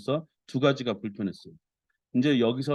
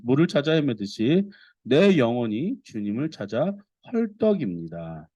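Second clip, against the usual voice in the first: impassioned, declamatory psalm recitation; scripture reading; 3 semitones higher than usual. Acted. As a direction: read the psalm aloud with fervour. Reads the psalm aloud to congregation. (간절하게 낭독하는 시편)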